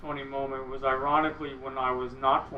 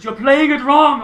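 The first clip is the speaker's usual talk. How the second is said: loud, high mock reprimand with laughter; imitated scolding; 10 semitones higher, 13 dB louder than usual. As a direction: yell the correction, half laughing. Imitating hero scolding his playing.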